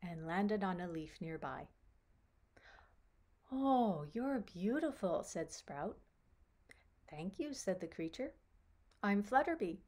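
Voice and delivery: gentle, lilting storybook narration; story reading to children. A narrator's reading. Storyteller telling children about Sprout meeting Flutterby, lilting read-aloud. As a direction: read it to a small child, with animated dialogue.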